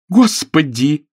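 slow, drawn-out horrified cry; horrified exclamation. A narrator's reading. Clara sees the murdered man, crying out slowly. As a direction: draw out the horror. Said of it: "воскликнула Клара".

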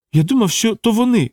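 high, pained moan. A narrator's reading. Wounded hunter moans his excuse to Jane, high and pained. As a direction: groan it out, hurt and pleading. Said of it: "простогнав Дейт".

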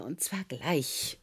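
whispered, slow and firm; quietly insistent command; stern whisper. Acted. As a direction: hiss the order low. Boss demands he come now.

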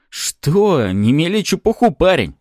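high, loud protest; indignant exclamation. A narrator's reading. Cop rejecting hero's claim, indignant exclamation. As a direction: cry out at the nonsense. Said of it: "воскликнул Пузан".

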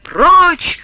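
father shoves his daughter away, shouting; loud shout. A narrator's reading. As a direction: bark Прочь! at the kneeling daughter. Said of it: "громко закричал Потап Максимыч".

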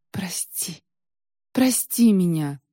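begging, the first word barely voiced; a hushed, slow plea for forgiveness; pleading. A narrator's reading. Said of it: "взмолилась Василиса". (тихая мольба о прощении)

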